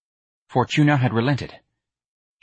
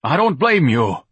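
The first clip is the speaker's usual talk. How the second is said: louder, slow exclamation; crying out; 6 semitones higher, 5 dB louder than usual. Acted. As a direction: exclaim it with heavy feeling. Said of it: "Ignatius cried".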